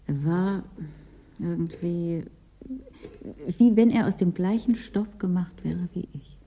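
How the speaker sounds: hushed whisper, voice dropped to breath. Acted. A woman confiding to Vera about a man, whispered. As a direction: let it slip out as a secret whisper.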